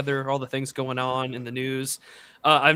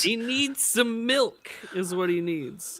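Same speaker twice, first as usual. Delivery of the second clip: mock caregiver; 3 semitones higher than usual. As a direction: coo over him like a fussing parent. Voices a fussy caregiver.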